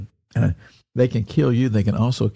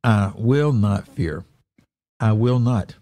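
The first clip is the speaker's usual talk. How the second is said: slow, deliberate "I will not fear"; firm declaration; slower than usual. Shown as a demonstration. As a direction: declare "I will not" with weight, each word spaced out. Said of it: "and declare these things".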